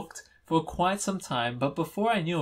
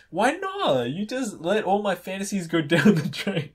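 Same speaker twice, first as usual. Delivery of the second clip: very high mock outrage; high, theatrical wail from a friend; dramatic protest; 6 semitones higher, 4 dB louder than usual. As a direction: squeal it in hammed-up dismay.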